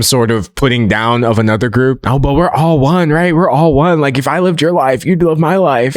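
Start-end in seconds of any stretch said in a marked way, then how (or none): 2.1-4.0 lightly mocking, lilting we're-all-one voice; mock feel-good objector. Imagined supporter pleading unity, lightly mocked. 4.0-6.0 lightly imitating a sing-song platitude; mock earnest objector. Imagined supporter reasoning with the critic, lightly mocked. Voices the objector, then rebuts.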